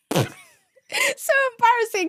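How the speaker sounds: high, very slow, stretched-out mortified whine; embarrassed whine. Retold or imitated. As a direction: drag it out, cringing at yourself. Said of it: "I was like".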